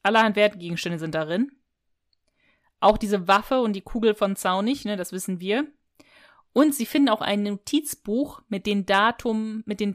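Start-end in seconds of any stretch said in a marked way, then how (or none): 4.8-5.7 quick whispered aside. Real, not acted. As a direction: drop to a whisper. Aside to co-host.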